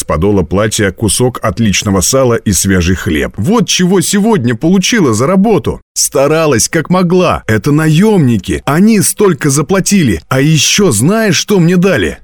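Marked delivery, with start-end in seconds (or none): 3.4-12.2 put-on high, eager girl's voice; excited boasting. A narrator's reading. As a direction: show off the payment with high-pitched delight. Girl shows off her payment.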